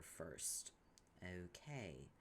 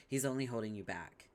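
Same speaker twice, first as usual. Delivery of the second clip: ordinary talk, nothing marked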